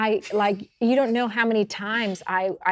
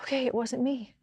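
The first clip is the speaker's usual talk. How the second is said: mock protest rising higher and louder; a touch of hammed-up indignation, louder at the end; retold indignant protest; 5 semitones higher, 8 dB louder than usual. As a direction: push back like you're defending yourself, half laughing. Retold defensive reply to director.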